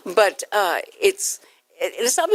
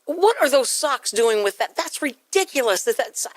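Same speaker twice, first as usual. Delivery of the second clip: higher-pitched mock exasperation; acted angry scolding; 5 semitones higher than usual. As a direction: nag the kids in mock outrage. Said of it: "you have to be angry".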